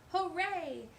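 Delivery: loud, high hooray; cheering. A narrator's reading. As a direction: cheer with joy. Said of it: "said all of our friends".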